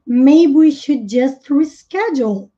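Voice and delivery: teacher repeats it slowly for the class; slow teacher model sentence. Shown as a demonstration. Teacher to Portuguese students, slow clear English model. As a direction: say each word slowly and clearly. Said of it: "Aí vocês veem o should".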